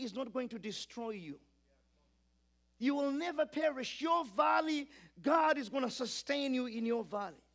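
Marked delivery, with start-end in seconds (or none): 2.8-7.4 louder, higher and forceful; preaching shout. Real, not acted. Pastor assures a hurting congregation with a rising preaching shout. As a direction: lift the church with a ringing cry.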